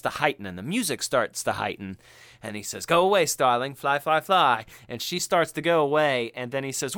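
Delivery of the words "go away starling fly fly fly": raised-voice mock send-off; urgent dismissal. Imitating Hannibal as the scene starts to heighten, urgent dismissal. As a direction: send her away, a bit loudly.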